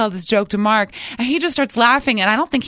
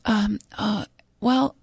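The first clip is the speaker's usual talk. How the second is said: imitating a hesitant, stammering caller; halting, unsure stops and restarts; nervous caller; 3 dB quieter, slower than usual. Nervous lady phones the radio station, imitated nervous hesitation. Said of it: "she's very nervous".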